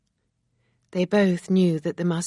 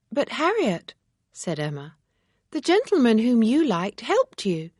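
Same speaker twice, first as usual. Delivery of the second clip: put-on lightly raised young lady's voice, firm; reproachful young woman, lightly voiced; Emma, earnest and disapproving; 6 semitones higher, 3 dB louder than usual. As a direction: Emma judging Frank's conduct, a little higher. Emma explains the mistake.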